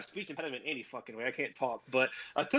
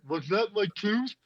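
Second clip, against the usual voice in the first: shocked question; 6 semitones higher, 3 dB louder than usual. Retold or imitated. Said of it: "I'm like".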